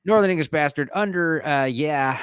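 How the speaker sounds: put-on a stab at a Northern English accent. Reading a headline in a Northern English accent. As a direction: try a Northern English accent, half-joking. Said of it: "read this in his accent".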